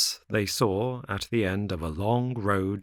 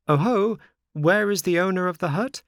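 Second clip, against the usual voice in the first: high, loud surprised cry; excited puppet's puzzled shout; very much surprised; 10 semitones higher, 5 dB louder than usual. A narrator's reading. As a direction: call out in high-pitched astonishment. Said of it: "cried Pinocchio, very much surprised".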